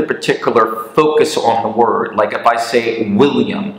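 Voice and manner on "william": "William" with the first syllable, Will, stressed. Shown as a demonstration. Teacher demonstrating word stress, first syllable of "William" stressed. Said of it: "so I'm stressing the William".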